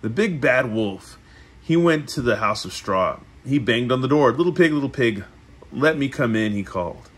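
measured read-aloud with lifted phrase openings; storybook narration. A narrator's reading. Reading the three little pigs to a listener, storybook narration. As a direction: read it like a picture book.

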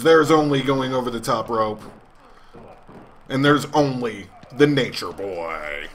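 dramatic ringside commentary, slowing at the end; wrestling announcer. Acted. Gamer hyping the Rumble, announcer style. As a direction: sell the rules like a TV commentator.

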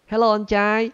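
high, loud teasing greeting; loud playful hello to the fisherman; mock call out. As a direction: hail the fisherman loudly. Calls to fishermen to troll.

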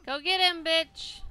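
screaming at the screen; yelling. Real, not acted. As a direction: yell it out in frustration. Yelling at game party.

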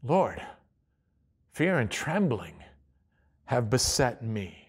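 soft, low confession to God; quiet prayer. Shown as a demonstration. Preacher modelling a quiet prayer of fear. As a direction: pray it quietly, admitting fear. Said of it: "just acknowledge".

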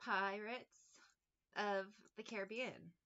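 slow and careful, pausing before of the Caribbean; said slowly. Shown as a demonstration. Careful slow title so she doesn't fumble it. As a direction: spell it out word by word. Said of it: "I'm gonna say it slow".

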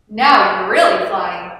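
a touch of admiration; loud, admiring praise. A narrator's reading. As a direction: say it with mild admiration. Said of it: "said Otto admiringly".

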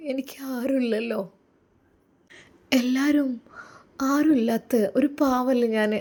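put-on a shy young wife opening up to her husband; timid young woman. Young woman confides to Ustad.

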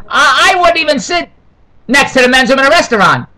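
indignant. Real, not acted. Outraged at pizza by restroom.

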